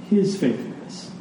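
"his" set apart after a pause; accent the word "his"; stress on HIS. Shown as a demonstration. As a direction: lean on "his", then let "faithfulness" fall. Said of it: "the accent in this passage is on".

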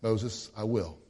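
understated patient promise; patiently. Retold or imitated. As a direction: calmly reassure Moses. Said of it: "Very patiently said".

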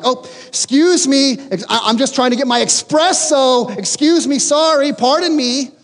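icy courtesy to a spouse you're not talking to; stiff fake politeness. Awkward hallway pass during silent treatment.

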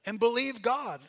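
loud, high self-rebuke; shouting at yourself. Acted. Preacher showing how to shout at yourself, loud. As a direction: bark it at yourself. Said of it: "you just need to figure out".

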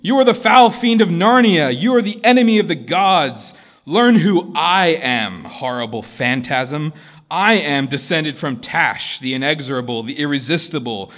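loud, high furious ranting; raging prince. A narrator's reading. Prince cursing Aslan before the court, enraged shouting. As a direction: rant like a proud prince cursing. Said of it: "shrieked the prince".

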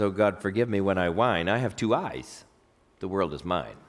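low, soft, slowing recital; humble prayer, dropping to a hush; poem recitation. Acted. Poem's author confessing to God, low soft humble recital.

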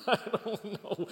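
high-pitched mimicked shrug; mock cluelessness. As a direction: play a clueless disciple in a high voice.

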